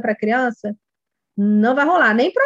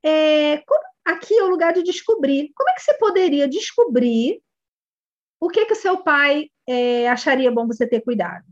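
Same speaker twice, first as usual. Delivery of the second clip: welcoming reassurance; 3 semitones higher than usual. Shown as a demonstration. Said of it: "Aí você fala assim".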